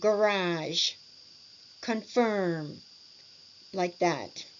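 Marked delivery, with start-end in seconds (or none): 0.0-2.8 "Garage, confirm" stressed on the second syllable, falling slightly at the end. Shown as a demonstration. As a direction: lean on the last syllable of "Garage" and "confirm", then drop. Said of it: "stress on the second syllable".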